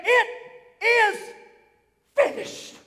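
awed, rising, half-whispered finish; hushed cry of victory. Retold or imitated. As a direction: let each word climb, then breathe out finished. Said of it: "he let out a shout".

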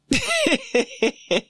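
short high giggle at herself; high laugh. Real, not acted. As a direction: let a real laugh break out, pitched high.

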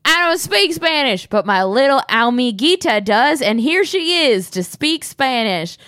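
hammed-up redneck voicemail greeting; insane hick answering machine. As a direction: whoop it up like a wild gator-farm cowboy. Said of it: "and he goes".

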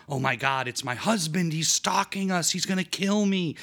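hammed-up terror that the husband is following; mock panic. Martha in the car, shrieking at the coworker in mock panic.

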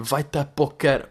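"Vai-te a poker" drawn out slowly as a coy swap for the swear; slow, playful self-censor; censored curse. Retold or imitated. Retelling the reaction to friends, slow mock censor. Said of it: "Foi mesmo".

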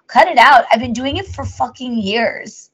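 mock indignation. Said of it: "I'm like".

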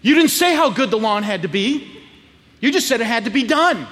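mock indignant young negotiator; arguing twelve-year-old. Twelve-year-old lawyer negotiates with dad, mildly indignant. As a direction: argue your case like a kid lawyer. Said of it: "I begin to negotiate with my dad".

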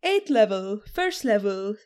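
lightly put-on eager student voice; plastic voice. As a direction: play a curious new player, lightly. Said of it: "Putting on my fake voice".

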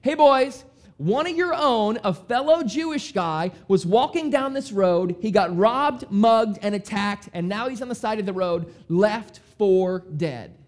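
rally the listeners; Jesus addressing crowd. Retold or imitated. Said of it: "Jesus is saying".

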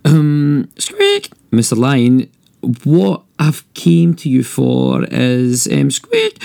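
very high squeaks from a tiny nervous mouse; squeaky mouse. Acted.

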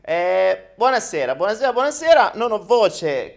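raspy croaky voice; croaky, losing the voice. Real, not acted. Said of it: "Cos'è sta voce gracchiante che ho?".

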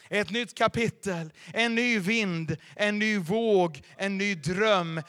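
slow, loud, each phrase hammered out; booming proclamation. Acted. Pastor thundering the promises to the congregation, slow and loud. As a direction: call out each promise like a herald.

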